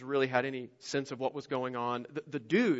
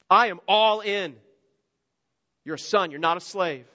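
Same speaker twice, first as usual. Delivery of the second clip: emphatic father; 3 semitones higher, 5 dB louder than usual. Acted. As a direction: overrule the apology with joy. Father cuts off son's apology.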